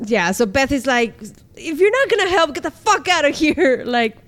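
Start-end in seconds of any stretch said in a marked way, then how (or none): 1.6-3.8 higher-pitched mock fury; retold exasperated rant, pitched up; angry outburst. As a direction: act out a fed-up, angry dismissal. Acting out Beth's angry outburst.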